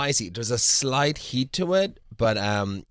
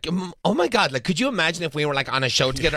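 imitating Bethany; 4 semitones higher than usual. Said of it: "Bethany turned to Jeff and was like".

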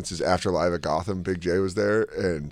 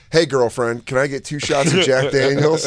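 imitating a playful, jokey greeting; light teasing impersonation of a friend; joking; 4 semitones higher, 4 dB louder than usual. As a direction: order it with mock familiarity. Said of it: "you said it completely jokingly".

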